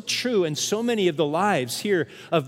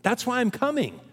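Paul as parent; 6 semitones higher than usual. Retold or imitated. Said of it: "Paul's saying".

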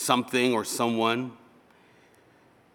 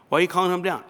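higher-pitched acted query; questioning the summons; 7 semitones higher, 3 dB louder, much faster than usual. Student questioning a call to the office, worried query. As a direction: ask it higher, in another person's voice.

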